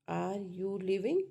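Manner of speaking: measured question swinging up on LEAVING; rising tone. Shown as a demonstration. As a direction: keep "Are you" level, then lift "leaving". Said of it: "rising tone".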